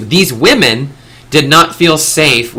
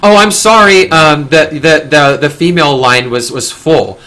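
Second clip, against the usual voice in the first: higher, louder mock apology, easing off as it goes; imitated apologetic mother; 3 semitones higher, 4 dB louder than usual. Mother excuses bringing children into men's bathroom, mock apologetic. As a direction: play a flustered mother making excuses, hammed-up at the start.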